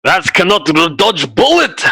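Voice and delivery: high, delighted exclamation; gleeful. Real, not acted. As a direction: crow with glee, pitch up. Gleeful over rats' fate.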